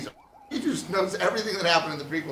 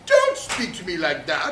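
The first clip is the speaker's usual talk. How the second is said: louder, drawn-out indignant repeat; C-3PO; 7 dB louder than usual. Acted. C-3PO rebuking R2-D2 once more, loudly indignant. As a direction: scold slowly and loudly, affronted. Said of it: "C three P O is like".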